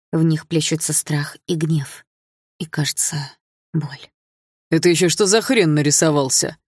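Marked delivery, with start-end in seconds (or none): 4.7-6.6 puzzled male voice. Acted. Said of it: "раздался непонимающий мужской голос".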